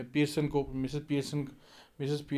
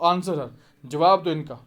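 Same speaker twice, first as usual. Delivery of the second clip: louder angry command, a bit slow; angrily; 2 semitones higher, 7 dB louder, slower than usual. Acted. Mother angrily repeats the order, louder and slow. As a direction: hammer the order home. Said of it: "बड़े गुस्से में बोलती हैं".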